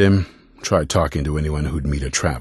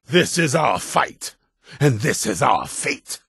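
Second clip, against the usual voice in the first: high, slow, ringing resolve; solemn high call to battle; rousing declaration; 11 semitones higher than usual. Acted. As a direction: lift the crowd with a vow. Leader's rousing climax line.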